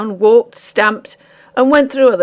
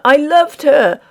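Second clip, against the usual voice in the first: raised, loud pleading; desperate plea; 7 semitones higher, 4 dB louder than usual. Acted. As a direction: beg them desperately.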